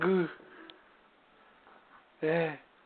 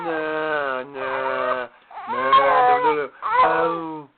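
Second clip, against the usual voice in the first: squeaky; 10 semitones higher, 5 dB louder, slower than usual. Real, not acted. Playful high no-nos to baby.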